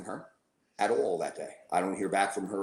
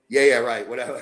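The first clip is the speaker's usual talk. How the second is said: sarcastic; 5 dB louder than usual. Retold or imitated. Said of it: "So I go".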